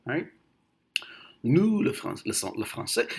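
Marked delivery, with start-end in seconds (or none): 1.4-3.1 clear, aristocratic French impression; Jacques Chirac. French president addressing the nation, in a clear ruling-class accent. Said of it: "I'll never forget Jacques Chirac".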